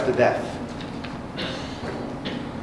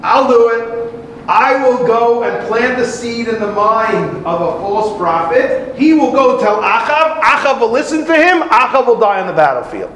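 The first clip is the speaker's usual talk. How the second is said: eager spirit; 5 semitones higher than usual. Acted. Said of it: "comes and says".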